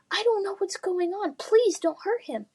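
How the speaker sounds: high pleading call. Acted. Lily calling to the knight to spare Adam, high pleading call. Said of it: "she called".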